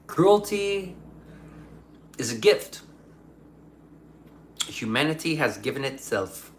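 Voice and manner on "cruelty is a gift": higher, laughing take on Cruelty; Cruelty drawn out high with a chuckle; laughing echo. Shown as a demonstration. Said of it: "Cruelty is a choice".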